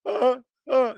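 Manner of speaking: high, slow hammed-up shiller; mock a sleazy crypto influencer bragging; mock scam influencer voice, pitched high. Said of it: "my shiller voice".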